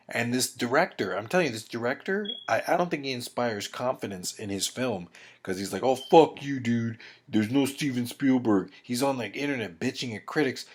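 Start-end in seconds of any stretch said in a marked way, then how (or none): 5.8-8.7 mock defiant outburst. Director lashing back at internet critics, mock defiant. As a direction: act out a defensive comeback, punched at first.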